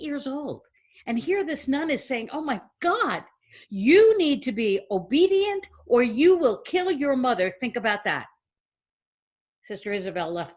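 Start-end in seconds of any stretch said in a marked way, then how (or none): 2.3-8.3 mildly dramatic nun's scolding, emphatic and higher; stern warning. Acted. Nun warns an eight-year-old to be obedient, stern warning. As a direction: lay down a grave, emphatic warning.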